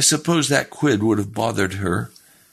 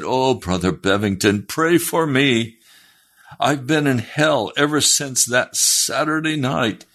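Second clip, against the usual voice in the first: desperate plea; 6 semitones higher than usual. Retold or imitated. Man begging the preacher for prayer, imitated plea. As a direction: imitate a pleading man, pitch climbing.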